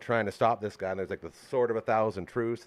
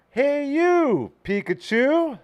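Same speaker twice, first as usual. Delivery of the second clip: announcer voice; 8 dB louder, much slower than usual. Pretend. Reads game title.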